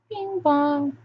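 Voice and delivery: bing bong sung high like a station chime; a playful sung bing bong; chime imitation.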